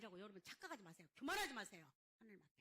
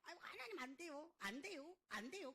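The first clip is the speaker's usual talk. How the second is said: mock pleading refusal, pitched up at first; protesting Moses; 3 semitones higher than usual. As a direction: beg off with repeated protests. Acts Moses protesting to God. (사정하며 거절하는 모세 흉내)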